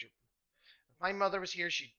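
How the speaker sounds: indignant scolding. Acted. Pip rebukes the smelly man, loud and indignant. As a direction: threaten him like an offended child.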